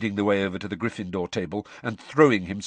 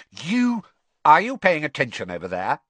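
teacher's raised call, higher; calling across; 7 semitones higher, 4 dB louder than usual. Acted. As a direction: call out to distracted boys.

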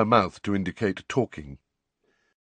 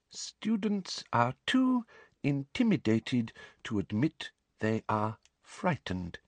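soft, slow mutter to herself; 4 semitones higher, 7 dB quieter than usual. A narrator's reading. Umbridge muttering a note while writing. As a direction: murmur it dismissively as you write. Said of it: "muttered Umbridge".

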